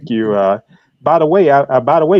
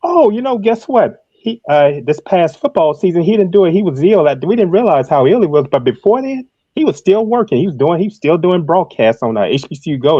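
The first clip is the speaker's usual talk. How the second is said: much higher and louder, eager to share the news; excited telling; 7 semitones higher, 4 dB louder than usual. Real, not acted. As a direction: pitch jumps up, bursting to tell it. Eager news about a late friend.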